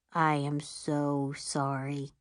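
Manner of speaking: low, slow solemn condolence; slow grave sympathy; very serious. A narrator's reading. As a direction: say it gravely, like at a funeral. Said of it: "she says in a very serious voice".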